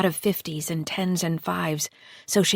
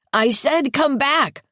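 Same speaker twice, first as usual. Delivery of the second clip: high, slow, loud shriek; 8 semitones higher, 5 dB louder, slower than usual. A narrator's reading. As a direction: shriek the words out. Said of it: "the boy shrieked again".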